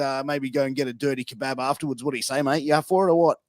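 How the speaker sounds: lightly played Aussie bogan, matey and rambling; a hint of Australian redneck, chummy patter; Bogan impersonation. Shown as a demonstration. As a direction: talk like a bogan mate pitching a pub night. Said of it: "my best impersonation of a Bogan".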